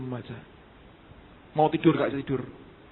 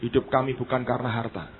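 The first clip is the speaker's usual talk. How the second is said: retold prayer; 4 semitones lower than usual. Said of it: "Saya berkata, "Tuhan".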